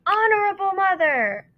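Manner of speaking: high, loud, breathless gasps; gasping. Acted. Chang gasping the name to his mother, breathless and high. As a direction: force each word out with no air left. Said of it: "he gasped".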